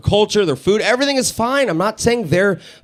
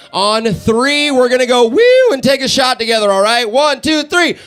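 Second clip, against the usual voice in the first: calling out to crowd; 5 semitones higher, 4 dB louder than usual. Real, not acted. Crowd count-in for shot.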